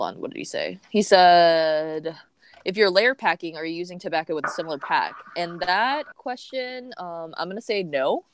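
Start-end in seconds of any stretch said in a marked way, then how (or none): 2.6-8.2 glitchy robotic call audio; choppy robot voice over the line. Real, not acted. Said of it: "sorry about my robo-, robot voice".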